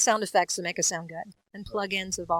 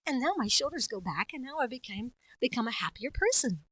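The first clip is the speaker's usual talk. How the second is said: lifted, happier character voice; happier person; 2 semitones higher than usual. Shown as a demonstration. Voice actor pulling shoulders back, happier voice. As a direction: let the voice rise out of old age. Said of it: "now I can get happier".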